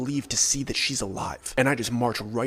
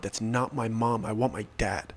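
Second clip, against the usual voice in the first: mild whimper; 3 semitones lower than usual. Retold or imitated. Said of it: "he's just whimpering out".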